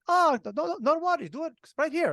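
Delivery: friendly Scotsman's voice, lightly done; Scottish accent. Retold or imitated. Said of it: "that British accent that you did was on point".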